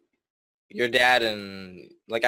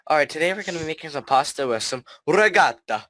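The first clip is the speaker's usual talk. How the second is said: higher, louder TV chef breaking into Italian on "regatta"; mock Italian chef; 4 semitones higher, 4 dB louder than usual. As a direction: normal American patter, then an exaggerated Italian last word. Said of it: "Italian chefs, and they speak completely normal".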